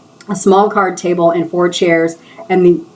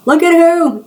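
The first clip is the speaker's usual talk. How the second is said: much higher, louder sudden question; nosy surprise; 11 semitones higher, 3 dB louder than usual. Acted. Stylist butting into the gossip, high surprised question. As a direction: jump in startled and curious.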